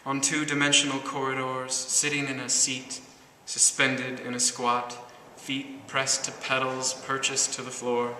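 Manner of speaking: deliberate, rhythmic verse delivery; poetry reading. Acted. Poet reads ode to driving at night, measured recital. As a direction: recite in measured phrases, lingering on line ends.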